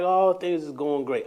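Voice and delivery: slow, deliberately upbeat; uplifted tone. Retold or imitated. To the cashier, slow deliberately upbeat tone. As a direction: sound cheerful on purpose. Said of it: "uplifted my tone. I did it on purpose".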